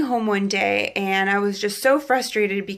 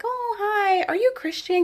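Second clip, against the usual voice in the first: friendly manager; 11 semitones higher than usual. Retold or imitated. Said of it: "she was like".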